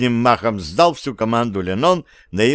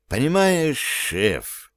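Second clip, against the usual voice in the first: heartfelt; 4 semitones higher, much slower than usual. A narrator's reading. Petruccio explains himself to the chief, heartfelt. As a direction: plead for understanding, softening at the end. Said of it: "проникновенно добавил Петруччо".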